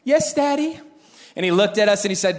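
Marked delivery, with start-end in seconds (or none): 0.0-0.8 high little-boy voice, playing innocent; mock innocence. Guilty boys answer their father, high and innocent. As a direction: imitate an angelic child answering daddy. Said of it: "in all the innocence that we could muster".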